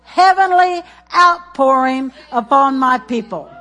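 preacher declaring a prophecy; prophetic declaration. Acted. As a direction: proclaim it like a word from God.

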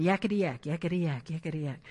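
lightly mimicked chatter, low and fading; mock yammering under the breath; demon yakking. Preacher imitating a demon interrupting Jesus, mildly mocking chatter. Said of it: "a demon spirit came up".

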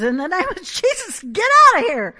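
acted angry command, building to a loud, high shout; Brother Hagin mad. Brother Hagin rebuking the demon, acted mad shout. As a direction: order it out, rising to a yell. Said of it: "Brother Hagin gets mad and says".

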